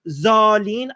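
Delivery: Zalin said slowly with a plain z; "Zalin" with a z sound, drawn out; own Persian pronunciation. Shown as a demonstration. Showing how a Persian speaker says it, Zalin with a plain z. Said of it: "Because when I say".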